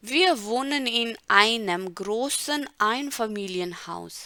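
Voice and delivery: very slow, word by word; slow model reading. Shown as a demonstration. Teacher reading Elena's German line slowly. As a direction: read the German sentence slowly and evenly. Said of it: "model reading of text".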